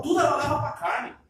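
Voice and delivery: a cry in the voice on the key line; emphatic preaching. Real, not acted. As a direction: hammer the phrase home with feeling. Preacher crying out point.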